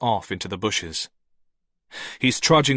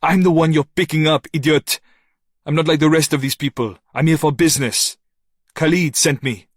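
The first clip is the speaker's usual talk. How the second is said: louder, higher, urgent insistence; insistent; 6 semitones higher, 6 dB louder, faster than usual. A narrator's reading. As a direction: push hard to be believed. Noah insists to the guard.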